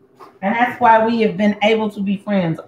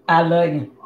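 softer tender repeat; 4 semitones lower than usual. Real, not acted. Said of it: "Don't be mad at me, baby".

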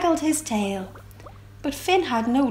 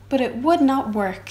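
ordinary delivery

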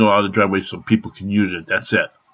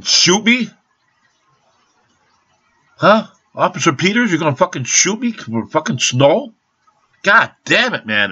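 high, loud angry yelling; furious outburst; 7 semitones higher, 3 dB louder than usual. Real, not acted. Ranting into the camera at Officer Peters, furious and shouting. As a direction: blow up at the cop in disbelief.

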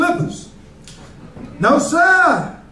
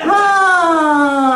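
shouted lion roar; 3 semitones higher than usual. Pretend. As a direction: bellow it like a lion. Comic playing a roaring lion.

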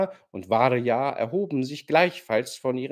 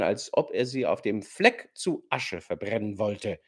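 ordinary delivery, nothing marked

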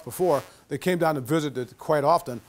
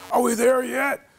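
put-on whiny kid; 8 semitones higher, 4 dB louder, slower than usual. Kids in car whining.

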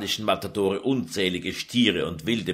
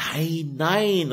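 cried out; 9 semitones higher than usual. Acted. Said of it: "rief Lucretia aus".

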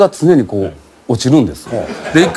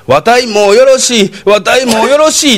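put-on slow, drawn-out old Osaka lady giving up; lightly voiced grandma, slow and resigned; mild old-woman Kansai drawl; 4 semitones higher, 3 dB louder than usual. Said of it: "って言うてはるんですよ".

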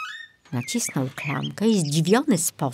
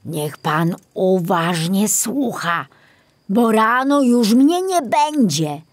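put-on old forester instructing; 3 semitones higher, 4 dB louder than usual.

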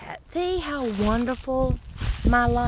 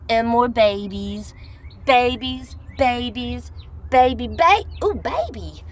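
higher and louder singsong list; excited singsong; 5 semitones higher, 4 dB louder than usual. Real, not acted. Gardener thrilled by her seedlings, high excited singsong. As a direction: gush over each new seedling.

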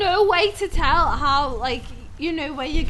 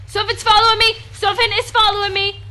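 scared shouting; 3 semitones higher, 6 dB louder, faster than usual. Real, not acted. Fleeing the monster.

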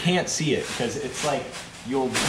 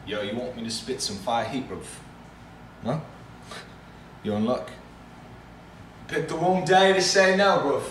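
UK drill rapper. Pretend. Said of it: "my impersonation of a U K drill artist".

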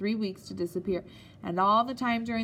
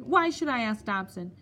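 louder, higher scornful question; indignant headmaster; 4 semitones higher, 4 dB louder than usual. Acted. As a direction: scoff at the very idea. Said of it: "he cried".

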